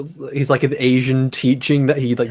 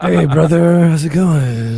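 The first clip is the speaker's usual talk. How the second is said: raised, hammed-up Rastafarian accent; bad Rastafarian accent; 3 semitones higher, 4 dB louder, slower than usual. Seagal greeting the makeup artist, bad Rastafarian accent. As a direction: do a terrible mock Rastafarian greeting. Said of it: "this terrible Rastafarian accent".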